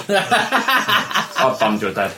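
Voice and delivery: words stretched out through laughter; laughing. Real, not acted.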